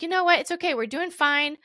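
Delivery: high, breezy it's-fine voice; brushing it off. Retold or imitated. To herself, shrugging off the trouble, breezy and high. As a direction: talk yourself into being okay, lightly. Reassuring herself about the agency.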